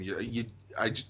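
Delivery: normal talking voice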